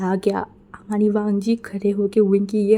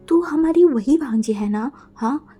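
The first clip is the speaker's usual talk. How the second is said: higher and louder, mocking shout; loud teasing call; 5 semitones higher, 6 dB louder than usual. A narrator's reading. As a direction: yell it across to tease your friend. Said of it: "जोर से बोला". (ज़ोर से चिढ़ाते हुए पुकारना)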